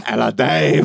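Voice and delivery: lightly voiced sinister circus figure; Papa Lazarou. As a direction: do a creepy circus master impression. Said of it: "Papa Lazarou from the League of Gentlemen".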